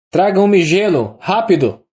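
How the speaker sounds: a doctor barking orders from the sickroom; authoritative doctor. A narrator's reading. Doctor shouting an order from the sickroom, commanding. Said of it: "a voz autoritária do médico".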